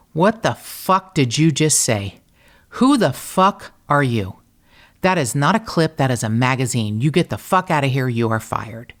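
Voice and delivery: a retold blow-up, half-acted; mock furious rant. Chewing out the instructor who said clip, in mock fury. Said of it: "I lose my mind".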